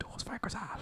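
very quiet whisper under the breath. Casting a spell in character so nobody hears: whispering under breath. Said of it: "I whisper".

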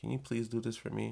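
courteous, well-mannered, nice polite tone. Showing the listener how to ask for something properly: polite request. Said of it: "be polite".

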